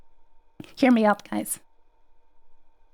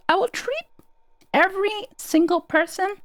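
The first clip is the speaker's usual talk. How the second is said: excited; 7 semitones higher than usual. Real, not acted. Grand promise to chat.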